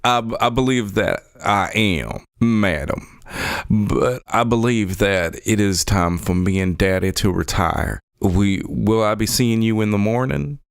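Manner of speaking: put-on lightly held character accent for Deke; a courtly Southern accent, politely formal; Deke's Southern-style drawl accent. Son asking the lady about breakfast, in a light character accent. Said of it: "my other accent is slipping into this one".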